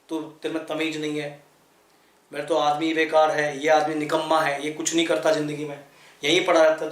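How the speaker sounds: low-pitched, mildly acted nagging wife; scolding wife. Wife telling off her useless husband, mildly scolding. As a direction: lightly imitate a wife running down her husband. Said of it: "वो अपने पति को डांट रही है".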